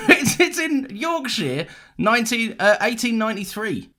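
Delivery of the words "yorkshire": Yorkshire ending in a full "sheer"; "Yorkshire" said like an American; Americanised pronunciation. Real, not acted. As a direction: say Yorkshire with a drawn-out American "-shire". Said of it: "you said it like an American saying it".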